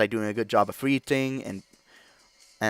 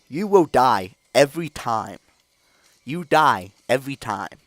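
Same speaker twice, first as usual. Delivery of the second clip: loud warning; 3 semitones higher, 5 dB louder than usual. Real, not acted. Hyped warning continues.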